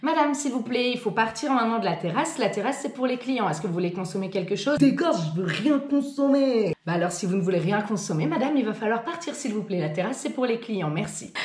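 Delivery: lightly sweet announcement voice; flight attendant. Retold or imitated. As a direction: sound like a polite cabin crew announcement. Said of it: "J'ai trop une voix d'hôtesse de l'air".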